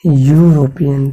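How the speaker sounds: यूरोपियन said slowly, syllable by syllable; teacher drawing out each sound of यूरोपियन; slow, spelled-out European. Shown as a demonstration. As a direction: stretch out यूरोपियन like a teacher modelling it. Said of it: "फिर यहाँ भी वही बात है".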